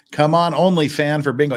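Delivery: eager, urging cheer; root for the word to be said; excited cheer. Real, not acted.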